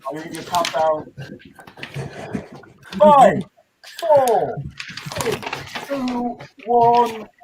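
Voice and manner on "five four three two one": calling out. Real, not acted. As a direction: call the countdown to the room. Calling out a countdown.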